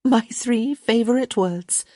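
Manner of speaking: high, slow contentment; happy sigh. A narrator's reading. Young lady pleased at his concession, happily sighing. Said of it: "She sighed happily".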